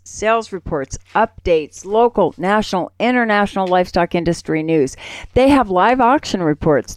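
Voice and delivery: upbeat sponsor spot, selling it; friendly host ad read; radio ad read. Acted. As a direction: pitch the paper like a live radio ad. Reads a sponsor ad.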